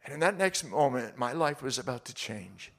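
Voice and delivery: ordinary talk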